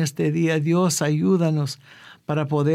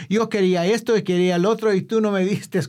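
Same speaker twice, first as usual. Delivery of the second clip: put-on quick, higher-pitched childish complaint, lightly done; whiny child; 4 semitones higher, faster than usual. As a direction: mimic a spoiled child demanding what he wanted. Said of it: "como un niño gritando". (niño quejándose, imitado con ligereza)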